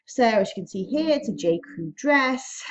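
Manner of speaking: breathless, short of air; out of breath. Real, not acted. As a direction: talk while winded. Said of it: "I'm out of breath just speaking".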